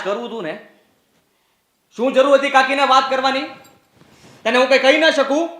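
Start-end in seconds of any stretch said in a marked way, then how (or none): 2.0-5.5 angry confrontation. Acted. Elder brother angrily rebukes younger brother for complaining. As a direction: throw the blame back at him.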